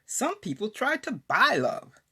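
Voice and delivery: emphatic devotional recitation, phrases lifted and set apart by pauses; poem recitation. Acted. Author shares her poem on God's love, emphatic recitation. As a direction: declaim the poem with swooping, deliberate emphasis. Reads second poem aloud.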